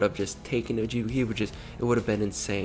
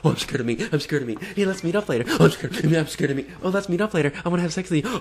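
high, mocking sing-song impression; mocking predator; 7 semitones higher, 3 dB louder, faster than usual. Vlogger mocking what predators always say, high sing-song voice. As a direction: parody the predator's lines, pitched up. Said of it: "They always say that".

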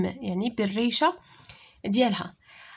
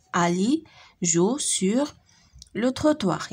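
phrase by phrase; slower than usual. Shown as a demonstration. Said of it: "Lis les phrases".

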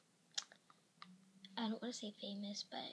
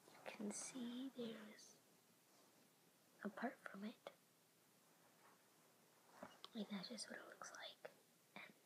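whispering. Real, not acted. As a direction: whisper so the parents stay asleep. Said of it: "the reason I'm whispering, 'cause my parents are sleeping".

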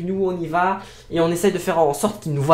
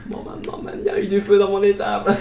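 laughing. Acted. Mock old farmer line, laughing.

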